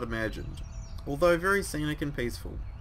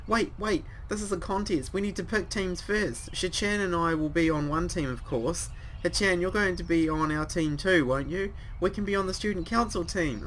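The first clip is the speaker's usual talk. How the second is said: much higher, eager voice; high excited girl; 5 semitones higher than usual. Acted. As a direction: bounce in as the peppy girl. Voicing excited character Misha.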